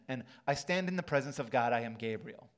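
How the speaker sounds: loud, booming angel proclamation. Pretend. Preacher redoing Gabriel's booming reply to the old man. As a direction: thunder it out as Gabriel. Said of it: "That angel voice, right?".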